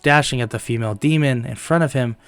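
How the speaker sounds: measured storyteller's delivery; recap-style story narrator; story narration. A narrator's reading. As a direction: narrate the tale evenly, a little held back.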